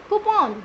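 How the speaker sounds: Coupon as "koo-PAWN", high then falling; open, long second syllable in Coupon, "koo-PON"; correct pronunciation. Shown as a demonstration. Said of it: "What is it?". (Coupon को "कूपॉन" बोलें)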